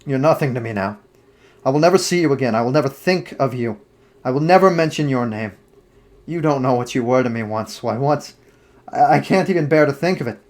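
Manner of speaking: a lightly voiced young man turning on his lover, scornful; cold, bitter dismissal that flares up in the middle; Dorian's cold rejection. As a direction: narrator lightly playing a cruel lover, contempt rising.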